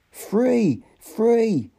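exultant shout of freedom. A narrator's reading. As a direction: cry it out in triumph. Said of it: "the savage shouted".

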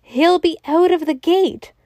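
high, urgent warning cry; mild narrated scream. A narrator's reading. Crowd fearing the elephant's escape, crying out high. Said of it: "screamed the populace".

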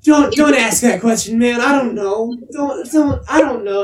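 high, stammering protest; retold flustered pleading. Retelling his answer to hurt friend, flustered. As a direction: imitate backing away from an awkward question.

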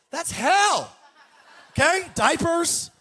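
laughing. Real, not acted. Joking about clouds and harps.

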